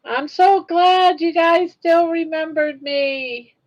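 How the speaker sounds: slow, high, tearful thanks; moved to tears by being remembered; teary. Real, not acted. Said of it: "Now I'm, I'm crying".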